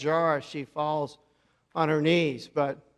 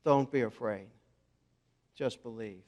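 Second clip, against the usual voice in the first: softly and lower, a retold whisper; hushed whisper; 6 semitones lower, 6 dB quieter than usual. Jesus leaning over to comfort Jairus, hushed. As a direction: lean in and hush it. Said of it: "He whispers to Jairus".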